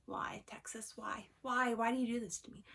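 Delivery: half-whispered mock plea that rises into voice; mock despairing lament. Vlogger pleads with Texas about allergy season, mock despairing. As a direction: playfully bemoan it, starting on a breathy sigh.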